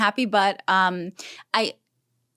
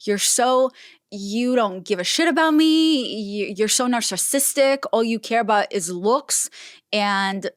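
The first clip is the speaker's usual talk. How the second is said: retold angry outburst. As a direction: imitate a sister lashing out, half-heartedly. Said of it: "she just goes off on me".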